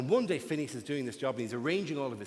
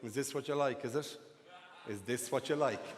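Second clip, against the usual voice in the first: quiet coy tease; 5 semitones lower, 7 dB quieter than usual. Retold or imitated. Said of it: "she walks out in lingerie and goes".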